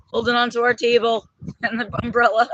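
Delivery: laughing while holding on; giggling through the words. Real, not acted. Gripping the table in wind.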